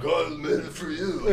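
put-on high, loud drunk husband; proud drunken offering. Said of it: "he's like".

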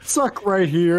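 mock angry guy. Quoting the angry man.

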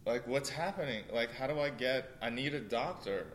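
mild panicky pleading, questions lifting in pitch; retold freak-out. Injured volunteer wondering how to find a doctor, lightly freaking out. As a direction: retell a mounting fret, lightly acted. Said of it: "I'm freaking out".

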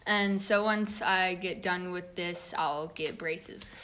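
talking around a retainer in his mouth; speech softened by a dental retainer; wearing a retainer. Real, not acted. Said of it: "he sounds a little different".

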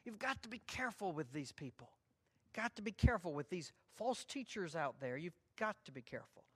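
Jude urging believers to beware of false teachers, lightly voiced pleading; Jude's earnest warning. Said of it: "He says".

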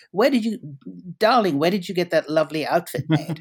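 high, gushing society-lady voice, a little amused; imitating a New York lady. New York woman stops mother on the street, gushing mock admiration. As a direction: mimic a gushing Manhattan woman admiring a sari. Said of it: "stopped on the streets by New York women and said".

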